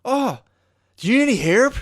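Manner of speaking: put-on high, loud caricatured Asian accent; yelled Asian accent. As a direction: holler across the street in a mock Asian accent. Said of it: "yelled at it from a roof".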